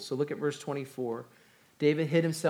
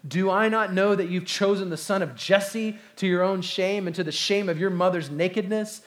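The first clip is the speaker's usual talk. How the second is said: angry king; 3 semitones higher, 4 dB louder than usual. Acted. Saul curses his son Jonathan, angry and loud. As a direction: berate his son in royal fury. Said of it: "Saul's anger was kindled against Jonathan".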